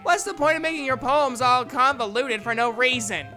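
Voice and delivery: loud, high, exasperated complaint; heated argument. Acted. Natsuki arguing against convoluted poems, heated. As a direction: press the point forcefully. Natsuki argues her case angrily.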